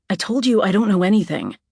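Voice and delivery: she's fed up with his questions; irritated. Acted. Anna to Glenn through the car window, irritated.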